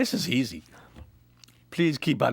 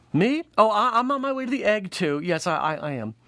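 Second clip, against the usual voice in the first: higher, stammering; flustered lady; 5 semitones higher than usual. Acted. Helen answering Vanessa, flustered and stammering. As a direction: fluster and trail off.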